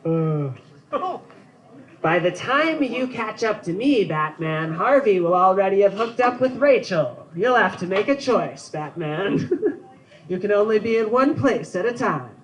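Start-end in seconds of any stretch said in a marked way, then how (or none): 2.0-12.3 Joker impression. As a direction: tease it like a lightly voiced madman. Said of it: "my Joker's not all the way there yet".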